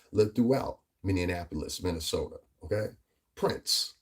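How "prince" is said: breathy whisper of the name. Acted. Vlogger whispers the singer's name to his viewers, hushed. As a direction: say it under your breath.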